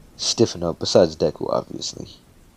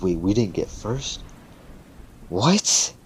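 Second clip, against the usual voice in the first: pissed disbelief; 2 semitones higher, slower than usual. Retold or imitated. Two rivals told they didn't get first, indignant. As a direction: protest it, ending on a rising yelp. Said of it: "they're kinda fucking pissed now".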